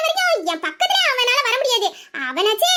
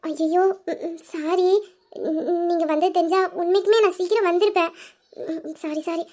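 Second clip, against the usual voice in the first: apologetic; 5 semitones lower, 3 dB quieter than usual. Acted. Wife apologising to worried husband.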